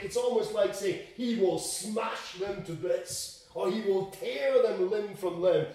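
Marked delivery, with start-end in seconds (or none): 1.2-3.4 slow, weighted "smash them to bits"; emphatic threat. Acted. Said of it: "It's an emphatic". 3.7-5.7 "tear them limb from limb" pressed louder; forceful weight on "limb from limb"; emphatic threat. Acted. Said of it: "It's an emphatic".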